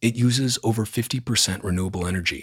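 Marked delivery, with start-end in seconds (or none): none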